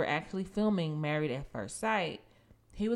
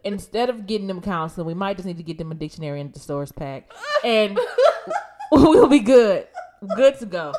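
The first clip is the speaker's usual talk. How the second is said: laughing; 3 semitones higher, 13 dB louder than usual. Real, not acted. Laughing at own joke.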